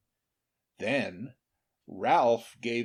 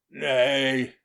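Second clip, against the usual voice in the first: louder firm nay; firm refusal; 7 dB louder than usual. A narrator's reading. King firmly refuses to punish Ralph. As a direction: stop the lords firmly. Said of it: "said Charlemagne".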